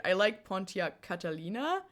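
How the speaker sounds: slight German accent on the car name. Real, not acted. Streamer names a favorite car, accidental German accent. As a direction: let a German accent slip into Pontiac Catalina. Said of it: "said that with a German accent".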